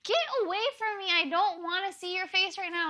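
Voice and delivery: high, fast heated retort; upset. Retold or imitated. Retelling yelling at Zach.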